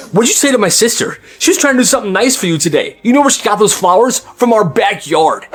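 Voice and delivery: mock angry yell. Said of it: "he yells at that teacher".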